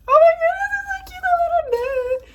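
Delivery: very high-pitched gushing; cute-overload squeal. Real, not acted. Vlogger squeals over cute air plants, delighted. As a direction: squeal with delight at something tiny.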